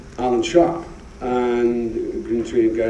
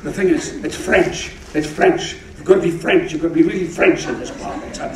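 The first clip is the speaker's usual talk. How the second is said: put-on higher, earnest insisting old pro; light mock of a mentor's insistent advice; imitating Fulton; 5 semitones higher than usual. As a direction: lecture him fondly on playing it French. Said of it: "He said".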